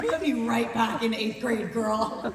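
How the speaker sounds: laughing. Retold or imitated. Retold remark at table read.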